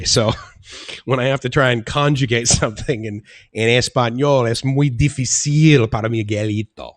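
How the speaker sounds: rusty Spanish spoken with a light laugh, as if showing off; playful Spanish. Shown as a demonstration. Streamer testing his rusty Spanish on viewers, laughing lightly. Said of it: "How was that?".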